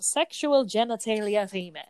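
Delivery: put-on hyper-enunciated between-British-and-American accent; attempted character accent. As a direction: try her odd half-British, half-American accent. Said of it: "I can't even do her accent".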